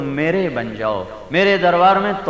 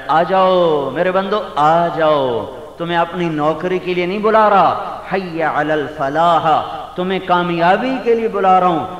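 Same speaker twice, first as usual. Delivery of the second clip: voicing God's call. Preacher voicing God calling believers to the mosque. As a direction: call the servants in, stretching the Arabic.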